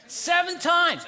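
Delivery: loud, high disbelief at seven; incredulous shout. Real, not acted. Preacher shouting at the congregation in disbelief. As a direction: shout it out like it's absurd.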